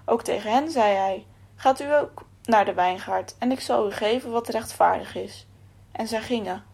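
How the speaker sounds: measured, solemn Bible reading; a preacher reading Matthew aloud, solemn; scripture reading. A narrator's reading. Reads scripture passage.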